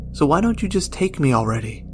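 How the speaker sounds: frustrated rushed plea; impatient plea. Acted. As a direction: press death for an answer.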